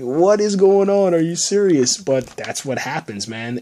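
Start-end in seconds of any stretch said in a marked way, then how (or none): 0.0-2.0 viewer's stunned reaction to the standoff; shocked disbelief. Retold or imitated. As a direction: gasp it out like you can't believe your eyes.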